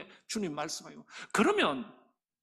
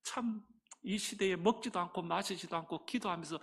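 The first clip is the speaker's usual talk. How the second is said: mild admiring. Retold or imitated. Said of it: "이렇게 말해야 되는데".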